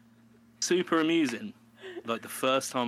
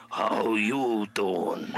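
slow, loud drawled Joey pickup line; smarmy flirt like Joey from Friends; slow, loud flirty "How you doing?"; Joey impression; 2 semitones lower, 6 dB louder, much slower than usual. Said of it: "Joey from Friends".

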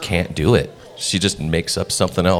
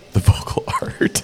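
laughing whisper. Real, not acted. Joking about what to call his audiobook work, whispered through a laugh. Jokey rewording of voiceover.

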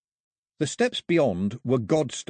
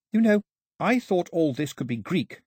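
put-on panting girl; 7 semitones higher than usual. A narrator's reading. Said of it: "She was panting when she reached him".

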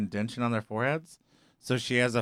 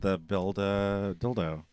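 mock solemn thanks; 4 semitones lower, 4 dB quieter, slower than usual.

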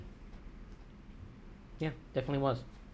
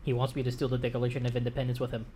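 fast talking. Real, not acted. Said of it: "really fast, almost rapped".

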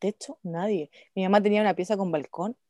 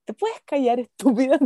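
sharp retold scolding; imitating an exasperated mum, a bit raised; fed-up mother; 4 semitones higher, 4 dB louder than usual. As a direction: tell the child off, higher and firmer. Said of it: "pero la cara era de".

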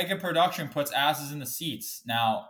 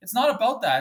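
angry shout; 9 semitones higher, 7 dB louder than usual. Real, not acted. Angry rant about hockey fine.

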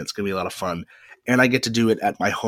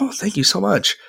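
imitating myself; 12 semitones higher than usual. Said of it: "I was like".

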